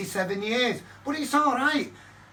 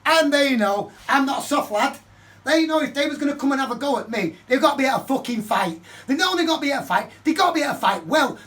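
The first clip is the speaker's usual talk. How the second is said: louder, higher heated boasting; 5 semitones higher, 5 dB louder than usual. Real, not acted. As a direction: insist on it, louder. Boasting about fights.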